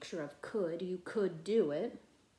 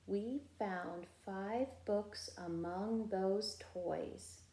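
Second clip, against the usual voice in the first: slow, softer repeat of We found five books among those toys; echo reading; 4 dB quieter, slower than usual. Shown as a demonstration. Teacher voicing the class's echo of the sentence. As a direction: say it back quietly as the echo. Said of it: "you be my echo".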